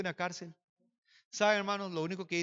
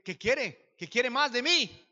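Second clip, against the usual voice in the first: retold pleading protest; 5 semitones higher, 4 dB louder, much slower than usual. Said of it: "Y yo digo".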